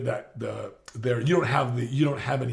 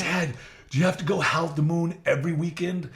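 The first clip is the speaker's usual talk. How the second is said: grandmother quoted; 4 semitones higher than usual. Retold or imitated. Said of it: "And she said".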